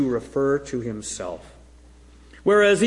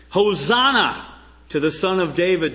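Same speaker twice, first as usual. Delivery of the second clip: crowd crying out. Retold or imitated. Preacher voicing the Jerusalem crowd greeting Jesus, raised cry. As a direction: call it out like the welcoming crowd. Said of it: "the people cry".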